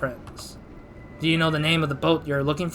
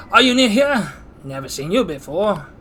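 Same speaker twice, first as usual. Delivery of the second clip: commit to a put-on voice for a game character; game character greeting a stranger, voice jumping up; 4 semitones higher, 4 dB louder than usual. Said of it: "trying to do a voice".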